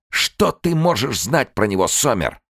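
high, loud furious shouting; a woman screaming at a soldier. Acted. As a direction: tear into him. Inga screaming at Somer.

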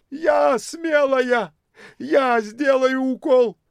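высоко, громче и медленно, с напором; рвись вперёд, выкрикивая; бойкая бомжиха. A narrator's reading. (бомжиха вызывается на укол, выкрикивая)

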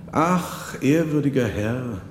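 put-on an old father correcting the monk sadly; old man replying with a high ach; old man's sigh. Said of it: "versetzte der Alte".

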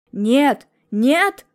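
loud desperate denial; father shouting his denial, loud. A narrator's reading. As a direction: yell the two noes. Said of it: "кричал Мелехин".

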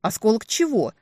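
high, loud, stunned question; taken aback. A narrator's reading. Woman puzzled by the kidnapper's demand, taken aback. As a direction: ask it in utter surprise. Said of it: "опешила я от неожиданности".

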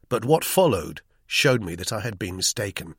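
ordinary delivery, nothing marked

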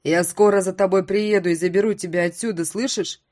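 loud, urgent promise; loud pleading. Acted. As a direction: call it out desperately.

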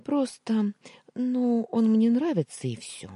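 high, embarrassed near-whisper; shy hushed confession. A narrator's reading. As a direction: confess it shyly under your breath. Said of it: "заговорила тише".

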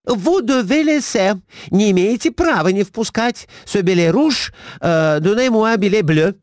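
high, frantic broken French; Глафира furious. A narrator's reading. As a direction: foam at the mouth at the waiter. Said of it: "с пеной у рта набросилась". (высокий яростный крик на метрдотеля)

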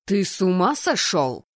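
loud, incredulous demand; dean's loud outburst; indignant dean. Acted. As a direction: challenge a colleague's madness, loudly. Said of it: "Голос декана Райана Валруа отчётливо доносился".

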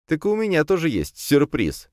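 playful smug hint; smug smirk. A narrator's reading. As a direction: tease him with a secret. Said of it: "хмыкнул я".

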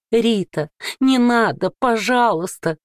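high, warped mimicry of his plea; mock him in a twisted, eldritch voice; distorted mocking voice. A narrator's reading. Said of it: "передразнила Рита мужа искажённым голосом". (искажённый издевательский голос)

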